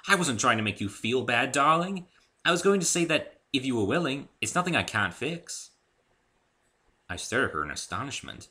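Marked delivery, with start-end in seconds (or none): 0.1-5.7 high, loud and flustered; Rarity hastily reassuring her guest; hurried. Acted. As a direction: rush to stop him leaving.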